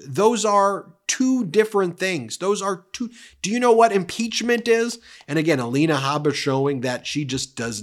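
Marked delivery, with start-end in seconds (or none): 0.1-5.0 higher, incredulous scolding; mock a judge in disbelief; exasperated judge. Judge questioning the lawyer, imitated exasperated rise. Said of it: "And Judge Kaplan goes".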